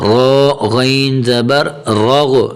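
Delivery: "را" and "غین" thick and full-mouthed; heavy ra and ghayn. Shown as a demonstration. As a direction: make "را غو" heavy and rounded. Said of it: "را بھی موٹا ہے اور غین کو بھی موٹا کرنا ہے".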